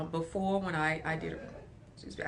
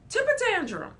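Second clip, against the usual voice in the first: high, whiny mock child; higher, louder mock tantrum; 13 semitones higher, 8 dB louder than usual. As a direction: imitate a kid throwing a fit.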